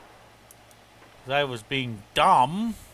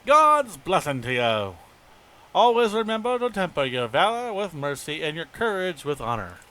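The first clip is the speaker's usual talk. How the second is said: lightly voiced, stately officer; measured read of a general's dialogue; game commander reading; 2 semitones higher than usual. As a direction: give a formal blessing, lightly in character. Reads game dialogue in character.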